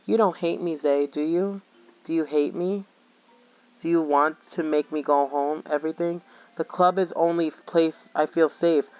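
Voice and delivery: lightly voiced lonely girl pleading; clingy game girl. Reads the character's pleading lines.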